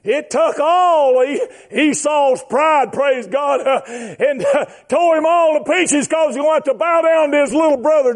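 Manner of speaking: rhythmic preacher's delivery; impassioned preaching. Real, not acted. Preaching at full force.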